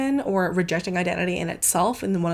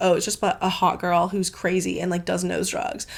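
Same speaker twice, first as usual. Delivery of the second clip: usual speaking voice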